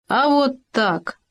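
slow teasing imitation of the cuckoo; mocking mimicry. A narrator's reading. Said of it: "передразнил Хома".

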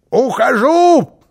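loud, high, drawn-out announcement; proud declaration. A narrator's reading. Karlsson leaving with head held high, proud declaration. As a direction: proclaim it slowly at full voice. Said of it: "заявил он".

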